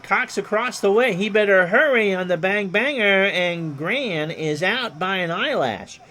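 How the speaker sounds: announcer lifting his voice for the out; Ron Juckett excited call. Acted. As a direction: sell the bang-bang play at first like a radio man. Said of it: "I do a mean Ron Juckett impersonation".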